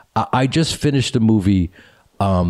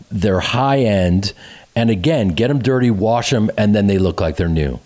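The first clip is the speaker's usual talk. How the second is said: upbeat podcast sponsor read; 2 semitones higher than usual. Acted. Host pitching washable shoes to podcast listeners, lively ad read. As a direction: sell it with lively, personal enthusiasm.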